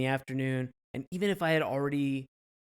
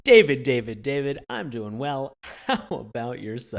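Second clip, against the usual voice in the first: playboy; 8 dB louder than usual. Pretend. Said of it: "That's a great billionaire playboy voice".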